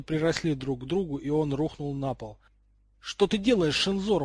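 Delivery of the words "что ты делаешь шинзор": higher, louder alarmed cry; startled exclamation. A narrator's reading. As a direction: call out in sudden alarm. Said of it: "воскликнул он".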